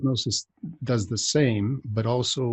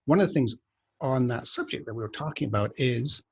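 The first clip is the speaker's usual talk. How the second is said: unplanned rise into a higher voice; voice jumping high. Real, not acted. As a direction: voice accidentally going up high. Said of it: "my voice just went really high".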